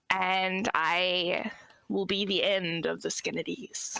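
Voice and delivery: slow villainous whisper; mad scientist. Acted. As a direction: hiss the threat slowly, like a schemer. Villainous boast in character intro.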